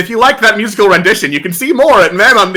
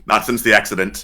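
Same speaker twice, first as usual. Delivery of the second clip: a lightly voiced low deadpan; mock grim; 9 dB quieter than usual. Answering co-host with a mock grim low deadpan. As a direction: drop the voice, somber mock. Deadpan joke about the accident.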